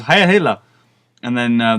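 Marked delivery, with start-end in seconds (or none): 0.0-0.6 raised-pitch mock soldier's salute; imitated Nazi. Game's Nazi guard checking papers, mock salute voice. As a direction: mimic a guard giving the salute. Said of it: "this Nazi's talking".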